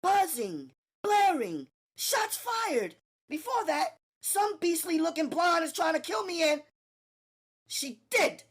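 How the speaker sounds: panicked Natalie. Acted. Natalie to Gina, panicked shouting. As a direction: spill the chaos in a rush.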